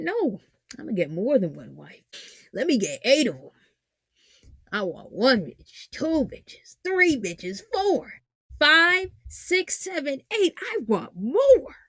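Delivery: lightly mocked greedy man, climbing in pitch as he counts; greedy demands.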